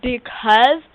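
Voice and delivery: put-on lisping character voice; weird lisp. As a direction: talk with an odd, affected lisp. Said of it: "she talks with this weird lisp".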